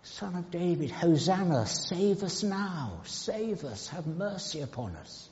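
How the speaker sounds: gently acted cry with falling endings; imitated crowd's cry. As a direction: plead for mercy in a softened, lifted voice. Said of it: "and they cry".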